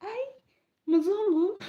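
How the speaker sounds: loud, high call of Mzungu; loud mock shout of Mzungu at a foreigner. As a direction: hail the white stranger loudly. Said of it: "they're like".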